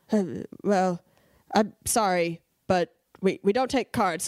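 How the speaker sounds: halting, sheepish climb-down; embarrassed apology. Retold or imitated. Cashier to customer who stood up to her, imitated embarrassed hesitation. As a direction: back down awkwardly while holding the line. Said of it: "embarrassed, but still, like".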